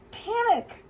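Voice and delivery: high loud cry of Panic; shouted panic. A narrator's reading. Narrator shouting the panic to children. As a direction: burst out with alarm.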